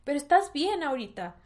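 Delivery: lightly voiced mother asking her daughter; imitating her mom. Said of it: "y me dijo".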